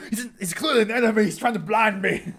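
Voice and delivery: high, fast, through laughter; laughing. Real, not acted. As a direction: laugh out the words. Laughing while blinded in game.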